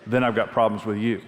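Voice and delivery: chuckling through the words; laughing confession. Retold or imitated. Pastor telling the Lord his grudge, laughing through it. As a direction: share the joke on yourself.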